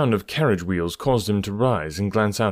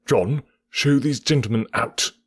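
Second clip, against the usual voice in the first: furious order; 5 semitones higher than usual. Acted. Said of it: "He rang the bell furiously".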